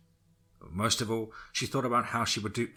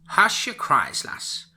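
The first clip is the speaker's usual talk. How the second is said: put-on old witch voice; 9 semitones higher, 6 dB louder, slower than usual. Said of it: "said the old witch".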